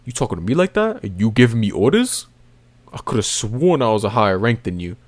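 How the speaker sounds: sassy commander. Retold or imitated. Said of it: "You know, giving him sass".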